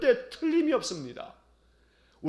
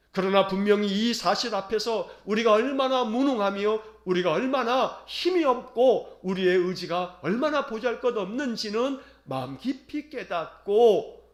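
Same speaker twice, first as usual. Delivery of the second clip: normal talking voice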